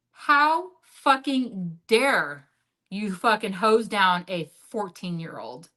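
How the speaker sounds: scolding the man who hosed her sister, retold anger; retold angry confrontation. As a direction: lay into him, drawing out the dare.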